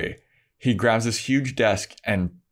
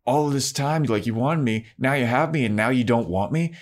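higher, indignant mock tirade; pissed off; 4 semitones higher, faster than usual. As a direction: throw his desire back at him. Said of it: "she's pissed now at Xander".

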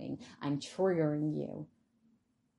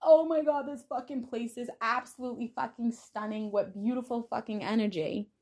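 much higher, loud gushing over the house; gushing admiration; 6 semitones higher, 4 dB louder than usual. Pretend. Praising someone's new house, in a high gushing squeal. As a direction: rave like a guest dazzled by a gorgeous home. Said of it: "I could walk into a house and be like".

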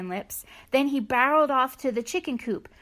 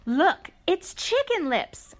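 put-on excited girls; 7 semitones higher, slower than usual. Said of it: "cried the farmer's granddaughters".

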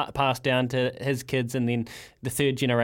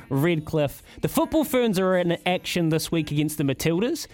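upbeat radio roundup read; sponsored segment read. Acted. Host reading the sponsored sports guide to listeners, upbeat announcer style. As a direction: sell the weekend fixtures like an ad.

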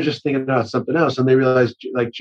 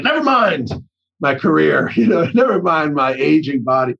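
mock heroic cry; 2 semitones higher than usual. Mock heroic cry diving for ball.

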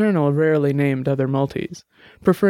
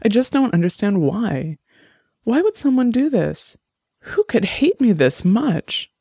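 rising higher, slower, near sobbing; close to tears; 7 semitones higher than usual. A narrator's reading. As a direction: voice climbing high toward breaking. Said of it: "She finally broke down".

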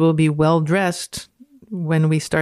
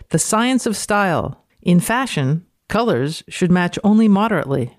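dramatic reading. Acted. Reads the title again.

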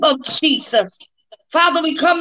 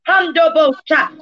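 speaking in tongues. Real, not acted.

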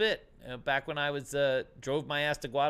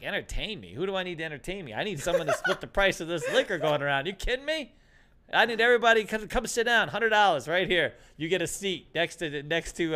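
higher, louder laughing rant; mock outrage; 3 semitones higher, 5 dB louder than usual. Teller re-enacting his rant to his friend, mock outraged.

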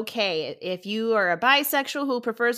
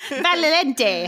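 Italian accent; 3 semitones higher than usual. Shown as a demonstration. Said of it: "more Italian".

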